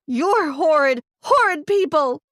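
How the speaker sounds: loud, high angry yell. A narrator's reading. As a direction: spit it at them in disgust. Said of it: "I yelled at them".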